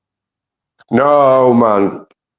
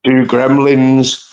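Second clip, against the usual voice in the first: slow and drawn out; 6 semitones higher, much slower than usual. Real, not acted. Riffing on the anacondas line to his mate, slow and relishing. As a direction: slowly relish each word.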